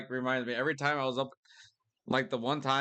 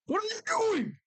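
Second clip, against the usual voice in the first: retold yell. Yelling at park visitors getting too close to bears. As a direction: shout it up high at careless tourists. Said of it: "because I was yelling at them".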